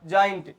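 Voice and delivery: जायंट opening on a J sound; soft G. Shown as a demonstration. Teacher modelling G before I, जायंट with a J sound. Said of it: "क्या बनेगा बेटा?".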